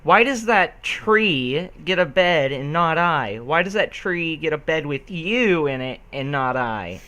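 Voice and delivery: haughty, put-out complaint in a different voice; complaining Rarity. Acted. Rarity complains to Applejack, put-out and fussy. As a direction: whine like a fussy lady denied her bed. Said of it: "Rarity started to complain".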